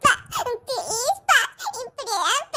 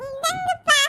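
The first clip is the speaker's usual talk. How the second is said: tearful. Acted. Child brings food to father.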